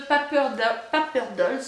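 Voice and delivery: Paper Dolls in a clumsy French-tinged English accent. Shown as a demonstration. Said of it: "mon accent anglais est très pourrave". (accent anglais maladroit sur Paper Dolls)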